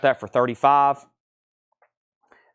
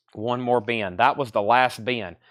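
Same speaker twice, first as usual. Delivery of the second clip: winded after hauling bins; breathing hard between words. Real, not acted. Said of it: "I'm out of breath".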